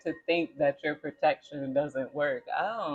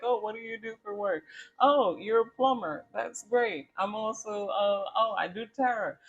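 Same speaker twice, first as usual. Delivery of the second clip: higher, fast, chirpy getting-to-know-you; friendly small talk; 6 semitones higher than usual. Retold or imitated. A stranger chats with a plumber, higher and chirpy. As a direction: play a chatty stranger at a party.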